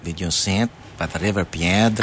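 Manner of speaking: low, lilting mock Spanish accent on Piedra; playful fake Spanish accent. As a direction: roll out a hammed-up Spanish accent. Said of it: "say that with, with an accent".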